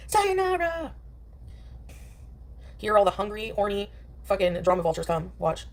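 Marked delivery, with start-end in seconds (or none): 0.1-0.9 higher, slow, stretched sayonara through a laugh; "Sayonara" drawn out high and slow while laughing. Shown as a demonstration. Streamer signing off to chat with a laughing, stretched "Sayonara". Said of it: "Sayonara, said a second time".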